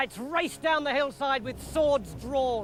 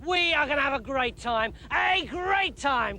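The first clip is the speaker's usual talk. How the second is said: gushing king; 4 semitones higher than usual. Acted. Saul gushing over David.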